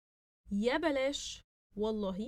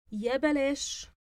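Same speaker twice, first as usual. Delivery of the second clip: excited; 4 semitones higher, 7 dB louder than usual. Acted. Acting out the dialogue line.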